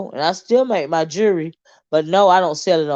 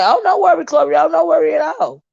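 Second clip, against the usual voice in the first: high, loud put-on reassurance; imitating other people; 11 semitones higher, 5 dB louder than usual. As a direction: mimic them in a raised, louder voice. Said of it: "some people say".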